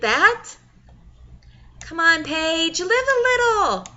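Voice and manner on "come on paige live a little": teasing mom voice. Acted. Mother teasing her daughter.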